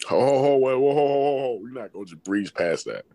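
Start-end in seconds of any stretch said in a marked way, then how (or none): 0.1-1.6 teasing ho ho ho. Real, not acted. Teasing reaction to work car.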